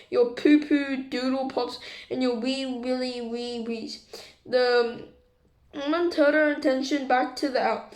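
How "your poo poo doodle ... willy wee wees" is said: put-on baby talk. Aunt mocking in baby talk.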